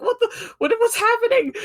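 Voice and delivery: very high squeaky voice, laughing through it; high, laughing, bewildered squeal; squeaky confused. Retold or imitated. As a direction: squeak out the confusion in a giggly falsetto. Gilliman confused by the angel.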